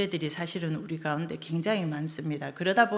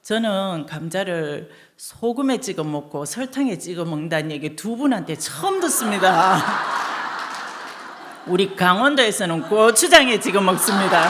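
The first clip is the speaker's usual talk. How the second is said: laughing judge; 2 semitones higher, 6 dB louder than usual. Retold or imitated. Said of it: "어이가 없다는 듯이 웃으면서".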